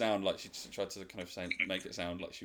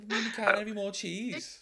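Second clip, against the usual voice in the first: put-on high, louder ditzy girl voice; ditzy mimic; 14 semitones higher, 7 dB louder than usual. Mimicking the contestant about Brexit, high and ditzy. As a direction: play the airhead, high and bright.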